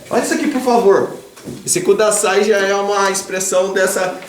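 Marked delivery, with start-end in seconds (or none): 0.1-1.1 quick, light polite request; polite translation. Shown as a demonstration. Teacher glossing the polite Japanese form. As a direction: rattle off the courteous version. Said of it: "Aí é".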